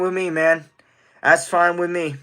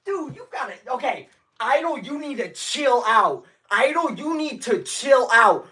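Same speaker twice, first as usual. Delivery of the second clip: overwhelmed plea; 8 semitones higher than usual. Real, not acted. Pleading with generous donor.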